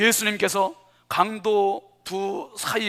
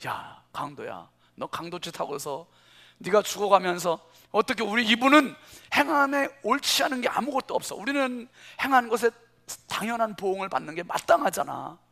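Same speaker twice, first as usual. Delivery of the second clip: rebuke. Retold or imitated. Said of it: "그 강도를 책망하지 않습니까".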